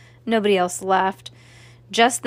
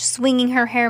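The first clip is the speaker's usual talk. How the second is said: ordinary delivery, nothing marked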